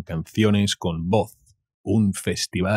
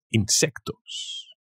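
voz aguda y estirada de bicho, muy lenta; voz de insecto; 5 dB quieter, much slower than usual. Pretend. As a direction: zumba la palabra como un insecto. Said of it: "Sounds like a call". (voz de bicho aguda y alargada)

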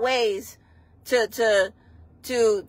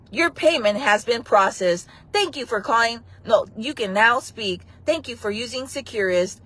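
automated voice. Pretend. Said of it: "when I do the phone calls".

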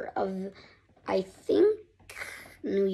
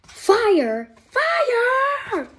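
loud, much higher crying shout; panicked shout; 12 semitones higher, 5 dB louder than usual. Acted. Reader rereading the fire alarm, panicked shout. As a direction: scream the alarm.

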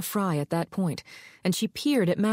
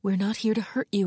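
softly. Acted. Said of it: "Maddie said softly".

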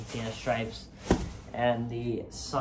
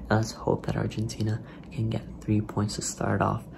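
whispering. Real, not acted. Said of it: "I have to whisper".

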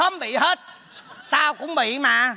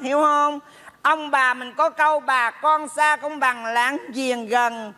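slow, chiding put-on mother; giả giọng mẹ; 2 semitones higher, slower than usual. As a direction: lecture a child as a pretend mother. (giọng mẹ giả, chậm rãi răn dạy)

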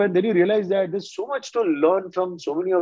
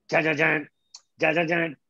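mouthed "ja, ja, jaan" guitar riff; vocalized rock riff; 3 semitones lower, much faster than usual. Retold or imitated. Guest showing what a composer would not play, vocalized riff. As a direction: imitate a rock band's riff in syllables. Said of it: "लेड Zeppelin की कश्मीर नहीं बजाएगा".

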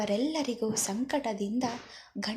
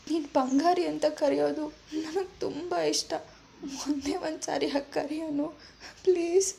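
higher, a touch of acted crying; tearful pleading; 4 semitones higher, faster than usual. Young woman begging her dying grandmother, mildly tearful and higher. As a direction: beg her to wake up, voice near tears. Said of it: "ಒಂದೇ ಸಮನೆ ... ಅಳುತ್ತಲೇ ಇರುತ್ತಾಳೆ".

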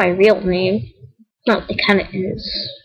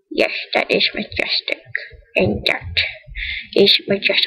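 awed whisper; 5 dB quieter than usual. Real, not acted. Admiring den item.

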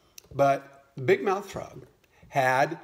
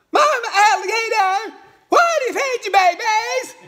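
eager little frog; 10 dB louder than usual. Acted. New frog mother asking mama hen for advice, squeaky high frog voice. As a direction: pipe it up high like a tiny frog. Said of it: "And she says".

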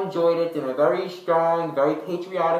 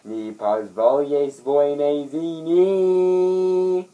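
slow, mock Russian-sounding gibberish; put-on Russian accent, drawn out; 4 dB louder, slower than usual. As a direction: fake a Russian leader, slowly. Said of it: "it's Russian".

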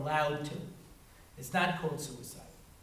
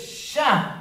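brisker shushing; 8 semitones higher, 7 dB louder than usual. Retold or imitated. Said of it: "He goes".

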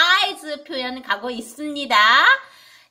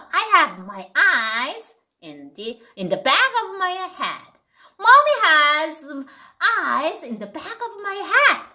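slow, knowing mommy voice; mom's playful warning; 4 semitones higher, much slower than usual. Shown as a demonstration. Teacher playing mom teasing her child. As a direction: tell the kids mommy sees everything. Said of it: "이렇게 하면 돼요".

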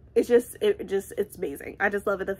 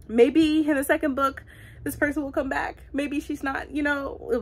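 hopeful inner thought; 6 semitones higher than usual. Retold or imitated. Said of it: "I'm thinking to myself".

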